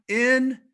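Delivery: the in of Encourage punched high and loud; stress on in. Shown as a demonstration. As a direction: hit the in of Encourage hard. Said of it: "emphasis on the word "in".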